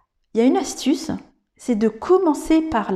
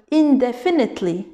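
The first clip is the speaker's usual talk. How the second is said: indefinitely with the stress pushed onto the opening IN; wrongly placed stress. Shown as a demonstration. Teacher showing where the accent is not, IN-definitely stressed at the front. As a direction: hit the first syllable of indefinitely. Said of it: "n'est pas sur le".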